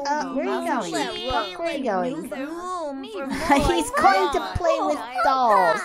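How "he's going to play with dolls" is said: slow words laughed through; amused, drawn out with laughter; laughing. Real, not acted. Player laughing as Puck heads for dolls, slow and amused.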